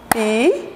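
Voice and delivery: PIPOCA chopped into pi, po, ca, a beat apart; syllable by syllable. Shown as a demonstration. Teacher leading pupils clapping, PIPOCA split syllable by syllable. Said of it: "vamos bater palmas pra gente observar".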